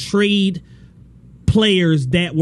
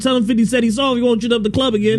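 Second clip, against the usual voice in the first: rapper impression; 4 semitones higher, faster than usual. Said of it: "like when fifty Cent dissed Sean".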